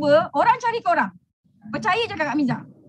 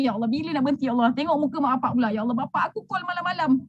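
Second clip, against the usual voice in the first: low, mildly plaintive plea; understated tearful pleading, pitched low; tearful prayer; 5 semitones lower than usual. Acted. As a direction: imitate a night-time lament to God. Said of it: "Malam-malam nangis".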